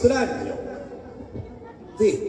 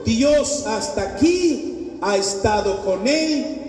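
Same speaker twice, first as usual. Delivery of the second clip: slow, weighty pulpit declaration; solemn preaching; slower than usual. Acted. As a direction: lean on each "Dios" slowly.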